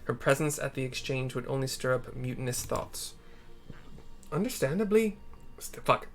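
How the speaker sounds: a hint of a steady ruler; lightly voiced resolute lord. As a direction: lay out the plan calmly.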